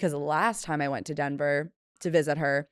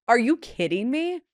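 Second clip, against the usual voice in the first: disbelief; 7 semitones higher, 4 dB louder than usual. Retold or imitated. Retold shock at rebooked flight.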